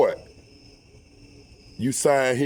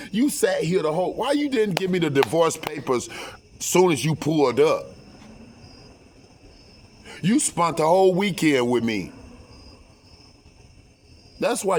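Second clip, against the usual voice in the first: heated retort; 3 semitones higher than usual. Retold or imitated. His heated retort to his wife.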